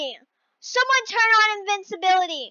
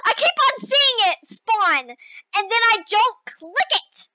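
odd worked-up voice; 6 semitones higher than usual. Real, not acted. Player explaining her failed jumps, high odd whine. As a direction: climb higher as the frustration builds. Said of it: "Why am I talking like this?".

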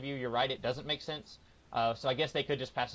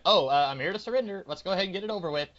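half-hearted; 5 semitones higher, 4 dB louder, faster than usual. Retold or imitated. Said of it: "instead of being like".

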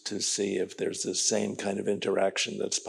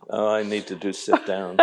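laughing; 3 dB louder than usual. Real, not acted. Joking reply, laughing.

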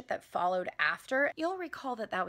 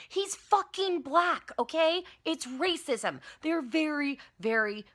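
higher, louder slow exasperation; exasperated; 6 semitones higher, 3 dB louder, slower than usual. Real, not acted. Comic answering pundits, an exasperated higher shout. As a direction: hammer the obvious.

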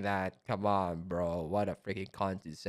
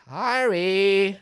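loud, raised scolding call; stern call; 9 semitones higher, 12 dB louder than usual. Acted. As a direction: call the student out sharply. Voicing teacher scolding student.

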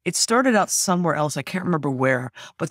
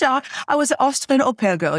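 Austrian accent; 8 semitones higher than usual. Shown as a demonstration. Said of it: "My accent's a little rusty".

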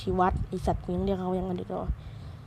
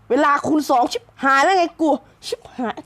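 a startled, raised cry of panic; sudden alarm, pitched up; alarmed outburst; 4 semitones higher, 3 dB louder than usual. Real, not acted. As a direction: blurt it out as the timer doubles. Panics at double time.

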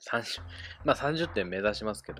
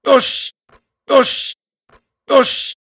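high, loud victory yells; triumphant shouts; 18 dB louder, much slower than usual. Real, not acted. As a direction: cheer each one at the top of your lungs. Celebrating a made shot. (勝利の雄叫び)

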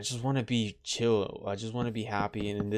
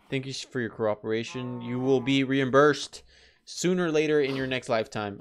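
mock official announcement; 3 dB louder than usual. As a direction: address the cows like a bureaucrat. Formal speech to the animals.

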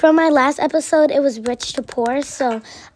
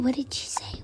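hushed; 12 dB quieter than usual. Acted. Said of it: "They all whisper".

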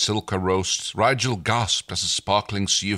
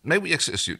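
put-on Stark's accent; 8 semitones higher than usual. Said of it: "This accent of yours".

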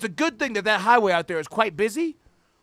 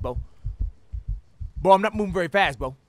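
usual speaking voice

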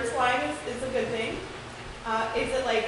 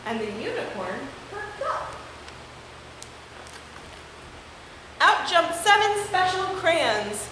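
lively, expressive picture-book read-aloud; story reading for children. Acted. Teacher reading a unicorn book to her class, animated. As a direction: read it to the kids with wide swings in tone.

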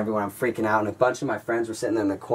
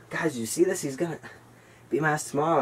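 higher-pitched retold disbelief; incredulous appeal; 5 semitones higher than usual. Teen telling friends about the threat, incredulous.

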